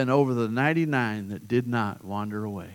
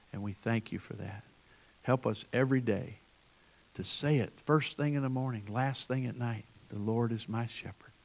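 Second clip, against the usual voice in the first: prayer; 3 dB quieter than usual. Acted. Pastor praying for his congregation: hushed prayer. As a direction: pray softly over the people.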